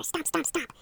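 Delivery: breathy whispered chant of stomps. Shown as a demonstration. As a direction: hush it out in rhythm. Coaching stomps rhythmically.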